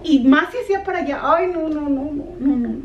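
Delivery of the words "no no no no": ordinary talk, nothing marked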